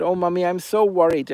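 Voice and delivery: Albert whining sweetly to Mummy Henny; fake worried cuckoo. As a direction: lay the false worry on thick. Albert fakes worry again.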